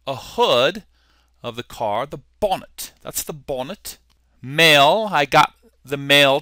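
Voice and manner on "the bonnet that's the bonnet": soft put-on British accent; mild British imitation. Shown as a demonstration. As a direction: say it quietly as a Brit would. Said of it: "give you my British accent".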